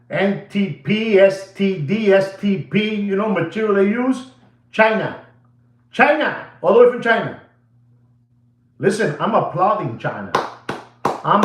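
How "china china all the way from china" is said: emphatic exclaim. Real, not acted. Exclaiming China repeatedly.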